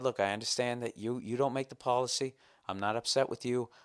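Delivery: softened, reasonable phone complaint; very nicely. Retold or imitated. Caller reassuring an airline agent about the policy, very nicely. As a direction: placate the agent politely. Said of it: "I said very nicely".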